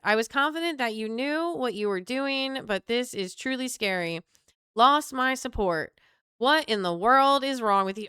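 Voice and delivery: mock Southern accent, slipping in. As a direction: read it as a put-on Southern voter. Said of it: "I keep slipping back in here".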